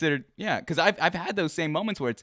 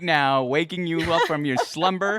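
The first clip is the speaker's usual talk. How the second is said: mock outrage; 3 semitones higher, 6 dB louder than usual. Mock scolding on mother's behalf.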